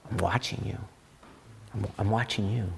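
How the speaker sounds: hint of a stern watcher, kept low-key; watchful warning. Imagined God keeping an eye on you, lightly voiced quiet warning.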